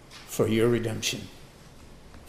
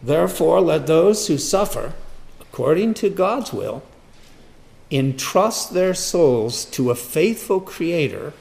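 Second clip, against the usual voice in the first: loud, higher proclamation from "Therefore" through "creator"; emphatic reading; 5 semitones higher, 7 dB louder than usual. Real, not acted. Preacher driving the verse home to listeners, emphatic reading. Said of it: "And I emphasize it".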